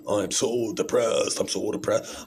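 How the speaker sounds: drawn-out, hammed-up gloom; mock depressed. Mocking a bipolar mood swing, mock depressed. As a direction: moan it slowly in pretend misery. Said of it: "bipolar is like".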